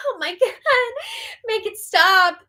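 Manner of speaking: high, whiny mock despair; drawn-out, hammed-up cringing wail; mock agony. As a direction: plead in exaggerated agony. Begs cringey gossip to end.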